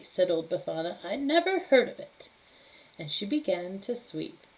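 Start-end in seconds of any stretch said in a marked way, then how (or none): 1.0-2.3 put-on high, brusque old lady voice; dismissive old woman. Befana brushing off the kings, high curt old woman. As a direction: brush him off like a cranky crone.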